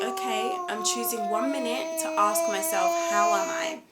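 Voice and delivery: self check-in voice. Shown as a demonstration. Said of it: "to say".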